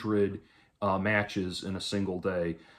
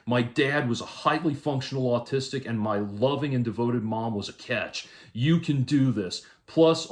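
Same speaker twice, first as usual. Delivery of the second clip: raised, emphatic read-out of someone's advice; higher-pitched, insistent quote reading; reading a message aloud; 4 semitones higher than usual. Retold or imitated. Reads out a message.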